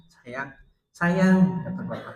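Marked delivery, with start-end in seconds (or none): 0.1-0.5 quiet, gently rising prompt; soft retold question. Son asking his father about love for mother, soft. 0.9-1.4 high, loud, emotional "Sayang"; tearful retold answer. Grieving father affirming love for his wife, emotional. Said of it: "Tambah nangis tuh jadi".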